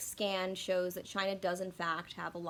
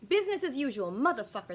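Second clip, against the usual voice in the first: triumphant outburst; 4 semitones higher, 7 dB louder than usual. Real, not acted. Triumphant recall of the phrase.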